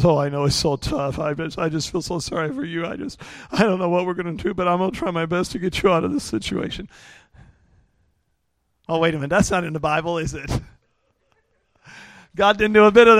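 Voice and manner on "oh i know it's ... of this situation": choppy, hammed-up tearful voice; mock crying sympathy. God pretending to cry with Gideon, mock tearful. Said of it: "God just starts crying with him".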